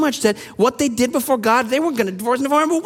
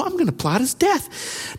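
scheming; 6 semitones higher, 4 dB quieter, slower than usual. Acted. Acting Esau's scheming idea.

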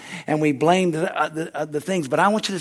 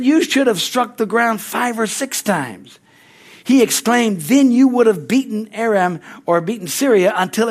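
angry prophet; 3 semitones higher than usual. Retold or imitated. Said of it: "the man of God was angry with him".

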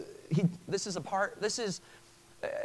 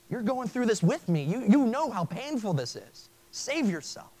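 higher, straining, pleading voice of a dying man; desperate plea; 5 semitones higher, 4 dB louder than usual. Retold or imitated. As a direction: beg him to save you, out of desperation. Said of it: "You can hear it in his voice".

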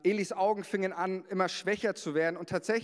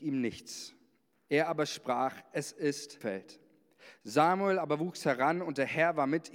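raised, solemn Bible reading; scripture reading. Acted. Pastor reading First Samuel to the congregation, solemn. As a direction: read the verse like a proclamation.

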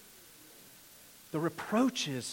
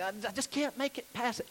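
higher, softer mock complaint; imagined struggling reader; 5 semitones higher, 6 dB quieter than usual. Reader bogged down in genealogies, softly complaining. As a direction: voice the reader giving up, stammering slightly. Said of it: "and you're like".

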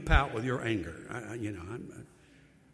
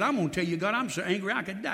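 mild mock anger, a bit quick; angry prophet; faster than usual. Preacher voicing Jonah's complaint to God, mild mock anger. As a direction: grumble it like a sulking prophet. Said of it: "I told him twice".

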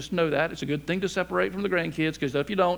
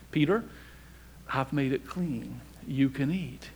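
God's calm reply; 3 semitones lower, 5 dB quieter than usual. Retold or imitated. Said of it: "God said to him and said".

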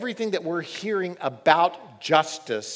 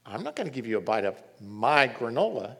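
put-on entitled kid; 4 semitones lower, faster than usual. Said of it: "this entitled treatment".

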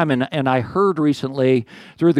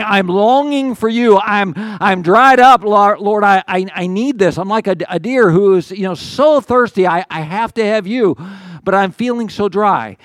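longing plea; 3 semitones higher than usual. Acted. Pastor voices David longing for God, halting plea. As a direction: stammer out the thirst for God.

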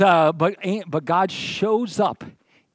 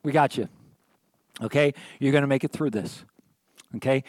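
reassuring God; 4 semitones lower than usual. Acted. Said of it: "Here's what God says".

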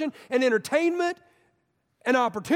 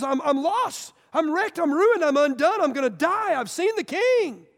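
panicked Isaiah; 5 semitones higher, 3 dB louder than usual. Retold or imitated. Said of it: "And he goes".

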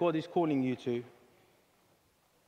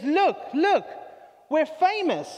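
high, louder, excited chicken voice; 10 semitones higher, 5 dB louder, slower than usual. Acted. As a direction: squawk it out like a thrilled hen. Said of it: "the chicken turns around to the pig and says".

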